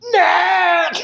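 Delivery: high, loud panicked call for help; freaked-out yell. Retold or imitated. Man waking in hospital calls to Natalie, freaked out. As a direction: cry out a name in sudden alarm. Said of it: "I freaked out".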